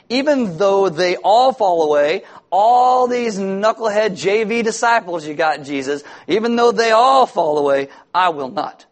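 boastful Peter. Acted. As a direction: puff up like a proud disciple promising never to fall.

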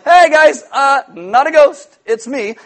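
lightly voiced Jesus calming his friends; casual reassurance. Jesus calling out to frightened disciples, in a lightly voiced casual call. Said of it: "Jesus is like".

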